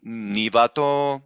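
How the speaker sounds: "nivato" chanted slowly with the final "to" held; svarita on long vowel. Shown as a demonstration. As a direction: intone "nivato", lengthening the last vowel. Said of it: "it should be".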